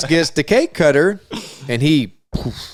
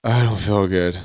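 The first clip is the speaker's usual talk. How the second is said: put-on lower, weepy queasy kid voice; sick kid whimper; 5 semitones lower than usual. Boy telling the table he feels ill, weepy whimper. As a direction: whine like a sick child. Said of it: "He's like".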